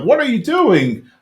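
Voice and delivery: host voicing the dad catching his son dancing, slow and high; mock upset dad. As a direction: draw it out like a shocked father. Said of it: "It's like".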